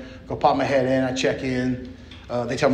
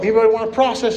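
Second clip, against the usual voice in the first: imitating counselor; 8 semitones higher, 5 dB louder, faster than usual. Quoting the counselor's call.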